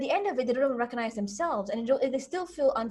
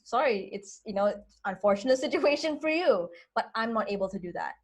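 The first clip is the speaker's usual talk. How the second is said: light, matter-of-fact decline, quicker at the end; breezy unapologetic sorry. Shown as a demonstration. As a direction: brush it off kindly but firmly. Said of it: "It is".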